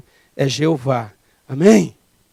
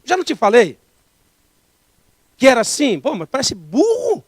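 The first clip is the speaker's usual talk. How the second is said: wrong way; 5 semitones higher than usual. Retold or imitated. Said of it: "a gente fala certo da maneira errada".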